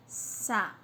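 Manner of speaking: "Sapato" split by very long pauses; sa... pa... to, writing pace for "Sapato"; syllable by syllable. Shown as a demonstration. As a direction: dictate "Sapato" one syllable at a time. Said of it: "dividir a sílaba sapato".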